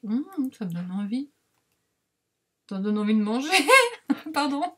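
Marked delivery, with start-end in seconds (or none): 2.7-4.8 words breaking into laughter; real giggling. Real, not acted. Vlogger admitting the fruit papers make her hungry, laughing. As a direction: crack up, then apologise through the giggle.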